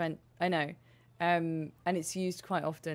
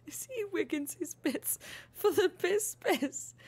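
higher, slower goofy put-on voice; silly voice; 11 semitones higher, slower than usual. Real, not acted. Mocking Wiggins, high and slow in a daft voice. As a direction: repeat the joke in a daft character voice.

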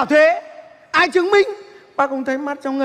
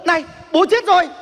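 excited, raised exclamations; breathless-sounding delighted disbelief; thrilled at news; 4 semitones higher than usual. Acted. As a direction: react to the death as if it were great news. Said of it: "bố chết mà anh sung sướng".

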